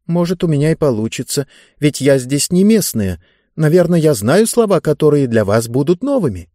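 lightly voiced girl offering to try; hesitant girl. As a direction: reason it out aloud.

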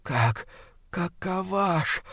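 slow, hushed, rotting monster voice. Acted. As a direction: drag each word like a dying beast. Monster struggling to breathe.

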